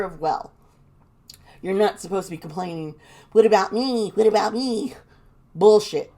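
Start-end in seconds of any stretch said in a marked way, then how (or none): 3.3-4.9 mock self-pitying whine; mimicking someone's petty complaining; mocking complaint. 5.5-6.1 real angry outburst, loud; loud, disgusted dismissal; pissed off. Real, not acted. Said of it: "I'm swearing 'cause I'm pissed".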